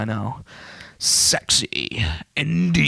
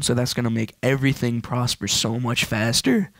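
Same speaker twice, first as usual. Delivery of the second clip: voice crack. Real, not acted. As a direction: voice cracking mid-sentence. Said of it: "that was a voice crack".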